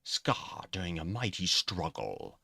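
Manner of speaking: slow, badly faked British accent. Shown as a demonstration. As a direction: rehearse a crummy British accent. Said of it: "uh, bad British ac".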